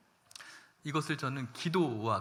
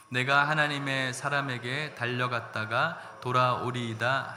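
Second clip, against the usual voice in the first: slow, loud unison reading of the verse; loud group scripture reading; 4 dB louder than usual. Acted. Pastor leading the congregation through the verse, loud unison reading. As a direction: read it out together with the church, slow and loud.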